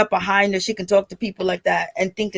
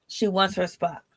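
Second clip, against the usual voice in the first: quiet; 3 semitones lower, 8 dB quieter than usual. Shown as a demonstration. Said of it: "repeats the line differently".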